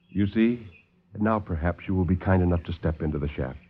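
calm the visitors like a silky host; suave doctor. Acted.

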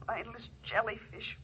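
very soft, low, ghostly recall; haunting echo. Acted. Remembered words ringing in a guilty man's ears, haunting. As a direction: murmur it like a voice inside his head. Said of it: "Ellen's words ring in his ears".

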